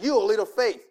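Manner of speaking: mild stern reproach; firm rebuke. Retold or imitated. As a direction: set them straight without softening. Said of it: "No, he says".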